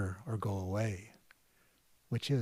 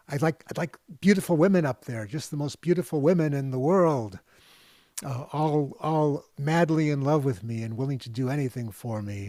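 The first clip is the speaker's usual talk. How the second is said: eager man; 4 semitones higher, 5 dB louder than usual. Retold or imitated. Man wishes for women.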